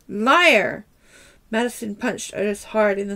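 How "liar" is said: angry accusation. Acted. Madison accusing Otis.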